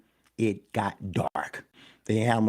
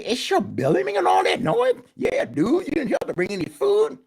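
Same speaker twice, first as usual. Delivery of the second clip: donkey voice; 13 semitones higher, 4 dB louder than usual. Acted.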